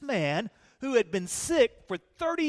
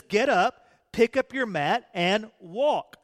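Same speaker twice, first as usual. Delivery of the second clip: enthusiastic command; 4 dB louder than usual. Acted. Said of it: "With enthusiasm".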